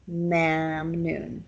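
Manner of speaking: mamnoon with an open ah vowel; ah sound. Shown as a demonstration. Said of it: "with the ah, ah sound".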